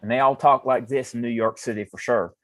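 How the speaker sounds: put-on Deep South twang; mock American Southern accent. Co-host kidding about New York speech, mock Southern accent. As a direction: say it like a folksy Southerner. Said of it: "one of them deep southern states".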